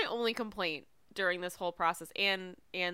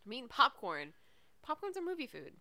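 chewing while talking; 3 semitones higher than usual. Real, not acted. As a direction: mouth full of popcorn. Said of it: "I'm sorry if I'm chewing".

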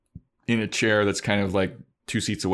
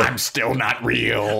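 slow, high creepy dummy voice; 4 semitones higher, 3 dB louder, slower than usual. Retold or imitated. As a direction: drag it out like a spooky ventriloquist dummy. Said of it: "And she's like".

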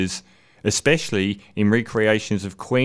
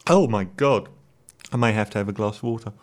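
choking. Real, not acted. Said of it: "that went down the wrong way".

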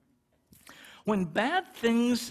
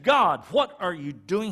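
louder, indignant cry at God; mock angry protest; 8 dB louder than usual. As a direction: voice Jonah's outrage. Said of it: "he was livid with God".

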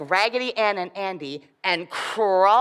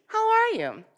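higher piping elf greeting; 13 semitones higher than usual. Acted. Elf greeting the rag dolls, high voice.

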